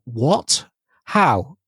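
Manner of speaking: mock-baffled questions; imitated listener surprise. Host voices listeners hearing the news, mock disbelief. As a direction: play the astonished audience reacting. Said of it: "everybody listening to this is gonna go".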